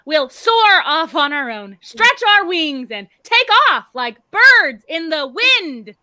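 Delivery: emphatic, theatrical hinting; pointed, over-enunciated hint; odd flowery talk. Acted. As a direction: stress the flying words to send a coded message. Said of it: "Why is she talking like that?".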